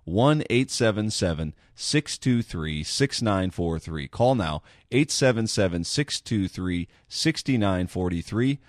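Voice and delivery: slow, clear phone number read. Acted. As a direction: spell out the number slowly.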